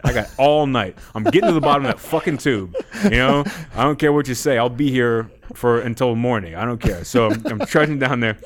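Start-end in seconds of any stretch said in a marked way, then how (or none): 0.0-7.0 defiant. Retold or imitated. Retold defiant reply to the tube.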